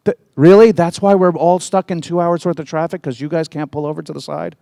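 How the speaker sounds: incredulous complaint. Retold or imitated. Stuck in traffic.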